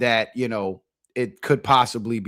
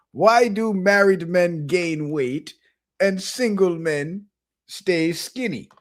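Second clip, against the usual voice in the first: imitated Jamaican host, higher and slow; Jamaican accent; 5 semitones higher, slower than usual. Host monkey puts a question to his elder, slow imitated Jamaican accent. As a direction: pose it slowly in a put-on Jamaican accent. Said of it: "they got Jamaican accents".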